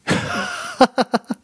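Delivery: short laugh. Real, not acted. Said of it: "Kleiner Scherz am Rande".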